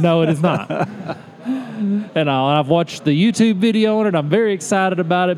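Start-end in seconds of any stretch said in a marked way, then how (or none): 0.0-2.5 laughing. Real, not acted. Laughing about the accessory.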